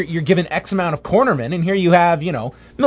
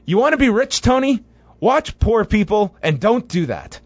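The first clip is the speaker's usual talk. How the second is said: Bobby Heenan impression; 7 semitones higher than usual. Retelling a Bobby Heenan line.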